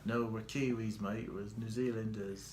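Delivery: a weak, lightly put-on New Zealand accent, barely off his own voice; bad New Zealand accent. Husband mocking New Zealanders' pride to his wife, lightly put-on New Zealand accent. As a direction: toss off a clumsy New Zealand impression as a Kiwi insisting he isn't Australian. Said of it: "not a good accent".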